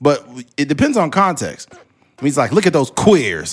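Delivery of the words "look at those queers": put-on, deliberately angry tone. Showing how tone makes a word hostile: demonstrating an angry tone. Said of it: "when you sound like you're angry".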